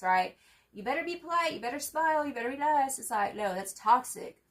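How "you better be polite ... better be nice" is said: mocking the voice of a nagging elder, higher; sing-song mock lecture about manners; mock scolding. Mimicking the people who told her to be nice. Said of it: "brainwashed to believe that you have to be nice".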